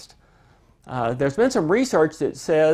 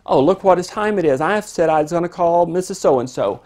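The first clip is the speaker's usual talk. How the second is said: mock breezy; 2 semitones higher, 5 dB louder than usual. Parent feigning sudden busyness.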